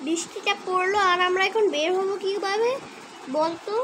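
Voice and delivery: fed up with the rain and letting it show; huffy, put-out friend; annoyed. Acted. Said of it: "আমাকে অনেক রাগ উঠিয়ে দিচ্ছে".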